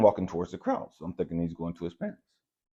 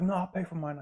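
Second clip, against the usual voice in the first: much higher mock voice for the friend; lightly voiced other person, pitched way up; imitating the other person; 13 semitones higher than usual. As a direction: squeak it out, mimicking them. Other person insists on paying.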